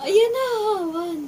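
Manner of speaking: high, loud, counting then shrieking; bracing then shrieking with laughter; nervous laughing scream. Real, not acted. Bracing for wax pull. (kinakabahang tili)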